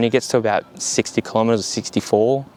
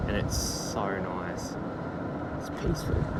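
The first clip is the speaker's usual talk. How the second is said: whispered; 3 semitones lower, 12 dB quieter than usual. Real, not acted. Calm riding moment.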